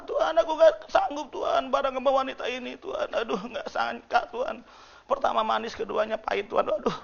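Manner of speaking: high, soft mock lament to God; husband's groaning prayer. Husband complains to God about his wife, soft high mock lament. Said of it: "Istri, suami juga sama".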